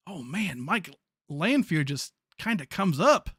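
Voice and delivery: slow Southern drawl; Southern accent. Real, not acted. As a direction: slip into an unplanned Southern accent, drawn out. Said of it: "I said that in a Southern accent".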